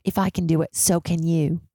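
lightly attempted Australian accent; a hint of bad Australian. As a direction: imitate an Australian woman, loosely. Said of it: "this one Australian girl in the group".

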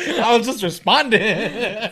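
slow, laughing admission; laughing at himself, slowed down; laughing slowly. Real, not acted. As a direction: drag it out while laughing.

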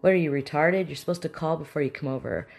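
acted confrontational outburst; mean aggressive person. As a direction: turn an uninvited friend away angrily. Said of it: "aggressive person".

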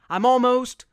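loud excited shout while running closer. A narrator's reading. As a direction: call out, nearly there. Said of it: "Tex shouted".

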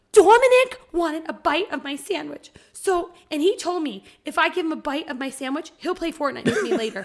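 imitating a tearful kid. Daughter explaining through tears.

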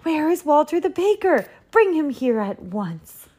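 high, commanding outburst; angry roar. A narrator's reading. Duke demanding the baker, angry roar. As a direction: summon the culprit in a rage. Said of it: "roared the Duke".

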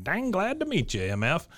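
high-pitched greeting in a put-on Boston accent; mock Boston accent. Host quoting Thatherton introducing himself, mock Boston accent. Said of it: "in his best Boston accent".

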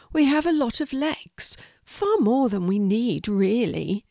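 high-pitched small spider; small creature, lightly apologetic; little spider voice. Acted. Spider answers the horse.

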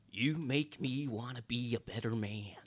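slow, lightly voiced Jack Nicholson line; a faint hint of Jack Nicholson, drawn out. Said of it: "said it in a Jack Nicholson voice".

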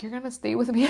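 put-on high little-girl voice asking not to be left; pleading little girl. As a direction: beg him to stay like a child. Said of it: "like a little girl".

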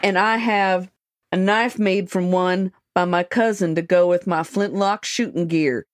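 lightly put-on rural Montana accent. Magazine excerpt read to friends in a mock Montana accent. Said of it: "I'm gonna do it in an accent".

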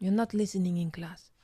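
put-on playful French-accented teacher; mild telling-off in a French accent. Teacher to inattentive pupil in class, French accent. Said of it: "French accent there".

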